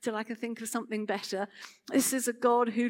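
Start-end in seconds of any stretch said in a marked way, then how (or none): 0.0-1.5 dispassionate shrug. Pretend. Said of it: "a dispassionate God who sort of sits back".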